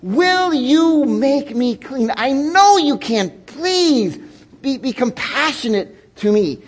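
earnest begging. Retold or imitated. Leper begging on his knees.

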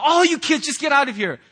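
dad mock-yelling at his kids to get out. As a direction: play the exasperated parent shooing them out. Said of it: "I yell and go".

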